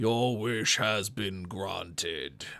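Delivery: distant, deep, booming proclaiming voice. Narrating a wish spell, voicing a voice from the horizon: deep voice from the horizon. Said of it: "you just hear a deep voice in the horizon go".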